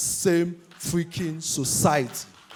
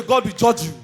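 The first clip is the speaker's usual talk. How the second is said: mock curse; 3 semitones higher than usual. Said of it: "they say".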